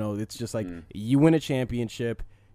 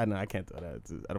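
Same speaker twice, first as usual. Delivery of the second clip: normal talking voice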